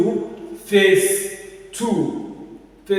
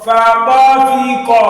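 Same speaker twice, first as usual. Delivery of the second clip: tafiqa loud and higher, "fi" emphasized; stress on third syllable; 4 semitones higher, 9 dB louder than usual. Shown as a demonstration. Teacher models for pupil, stressed "fi" in tafiqa. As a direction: call out tafiqa, leaning on "fi". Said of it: "Emphasis is on the third one".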